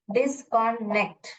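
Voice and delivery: "डिसकनेक्ट" slowly as dis, con, nect; scooped syllable reading. Shown as a demonstration. Teacher showing how a child will read it, in syllable chunks. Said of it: "फिर इसको scoop करके पढ़ेगा".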